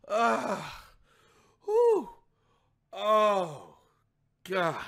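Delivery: imitated gasps of relief; mock climax moan. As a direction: mimic a man finishing too soon. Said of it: "This motherfucker goes".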